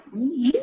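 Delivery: long, low imitated owl hoot. Storyteller voices the owl arriving at the web, hooting. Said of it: "when the owl came, he said".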